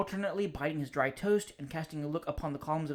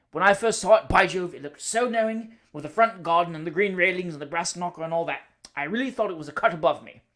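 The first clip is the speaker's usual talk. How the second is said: hearty greeting, much louder; top of his voice; 3 semitones higher, 6 dB louder than usual. Acted. Cousin bursts in on the bachelor, booming at full voice. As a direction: boom the greeting across the room. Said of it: "He always spoke at the top of his voice".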